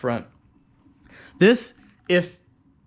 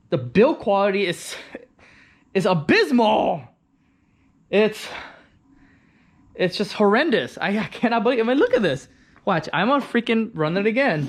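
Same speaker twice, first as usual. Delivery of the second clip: raised and exasperated, pitch climbing; fuming frustration; 4 semitones higher, 3 dB louder than usual. Real, not acted. Owner showing off a badly built scooter, exasperated and raised. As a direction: vent about the awful build, voice rising higher. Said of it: "I'm just fuming right now".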